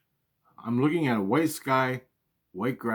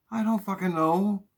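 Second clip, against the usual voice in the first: mom exasperated; 9 semitones higher than usual. Retold or imitated. Mom voiced swearing.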